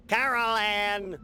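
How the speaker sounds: slow, drawn-out call; anxious call for Carol Ann. Acted. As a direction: call to someone in another room. Calling out for wife.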